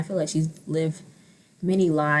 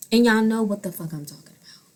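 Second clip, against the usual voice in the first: whisper; faster than usual. Real, not acted. Conspiratorial aside to viewers.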